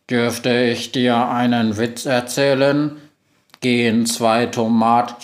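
even robot voice, slow in places; monotone robot. Acted. Robot assistant greeting the witch, monotone. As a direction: speak like a flat machine.

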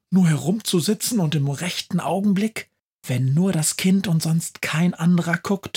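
cheeky Christmas witch defending her plan; high-pitched chatty witch, fast bursts; lively witch. Acted. Witch Befana voiced at length.

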